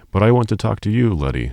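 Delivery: high, loud and fast; yelled. A narrator's reading. A farmer's son yelling at Letty across the counter, loud. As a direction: blurt it out over the noise. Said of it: "one of the farmer's sons yelled".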